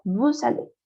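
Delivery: "Vous allez" joined as voo-za-lay; "Vous allez" as one connected word; French liaison. Shown as a demonstration.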